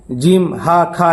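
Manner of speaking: جیم ہا کھا run together, no held vowel; short جیم without any stretch; unstretched letters. Retold or imitated. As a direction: imitate pupils rattling off جیم ہا کھا. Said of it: "اور کھینچتے نہیں ہے".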